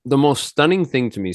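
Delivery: talking around a mint; words a bit slurred by a mint; mouth full. Real, not acted. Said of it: "I got some mint in my mouth here".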